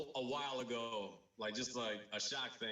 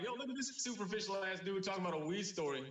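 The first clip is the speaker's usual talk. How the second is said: higher-pitched jeering call-out; mock heckle; 7 semitones higher, 4 dB louder than usual. Comic mocking his own weed story as others would, jeering. Mocks himself as an onlooker would.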